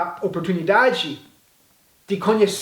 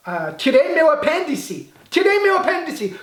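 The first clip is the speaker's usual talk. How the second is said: much higher, hammed-up bragging; mock proud boast; 8 semitones higher than usual. Teacher mocking a Brazilian who says he took out his own appendix, high and hammed up. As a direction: play it up like you did the surgery yourself. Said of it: "Como se você fosse o médico".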